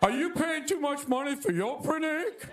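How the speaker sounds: hammed-up TV pitchman; Shaquille O'Neal ad. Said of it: "Shaquille O'Neal was selling me".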